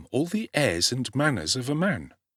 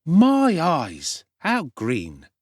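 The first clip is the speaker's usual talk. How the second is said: higher and louder amused exclamation; cocky street boy scoffing; 7 semitones higher, 5 dB louder, much slower than usual. A narrator's reading. Street boy mocking Oliver's ignorance, loud scoffing. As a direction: laugh at the greenhorn. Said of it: "exclaimed the young gentleman".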